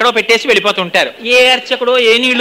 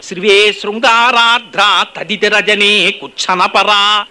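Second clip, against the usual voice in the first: even slower verse chant; sloka recitation; 3 semitones lower, much slower than usual. Acted. Preacher repeating the verse, slower chant. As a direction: stretch the verse out reverently.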